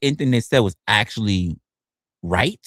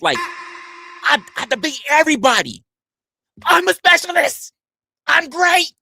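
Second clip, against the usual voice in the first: mock boastful debater; 10 semitones higher than usual. Streamer mimicking a boastful chatter, high and smug. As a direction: brag like a self-important debater.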